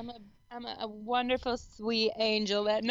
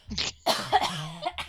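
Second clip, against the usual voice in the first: choking cough; 9 semitones lower than usual. Real, not acted. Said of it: "I'm choking on my".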